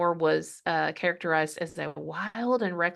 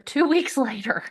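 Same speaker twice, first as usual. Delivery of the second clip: laughing disbelief; 7 semitones higher than usual. Real, not acted. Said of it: "Oh, wow".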